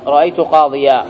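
قاضيا ending in long aa; tanween as alif. Shown as a demonstration. Teacher recapping the accusative pause, ending in alif. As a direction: hold the final aa of قاضيا, no n. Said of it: "بالألف".

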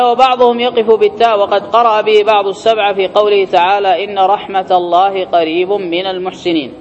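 measured, formal recitation from a book; reading set text. Acted. Teacher reading book and verse to students, formal recitation. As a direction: read it out evenly, slowing on the verse. Reads grammar text aloud.

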